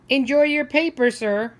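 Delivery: loud, high friendly call; cheerful seller. Acted. Newsstand seller greeting the old man, loud and bright. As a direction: sing it out like a happy news seller.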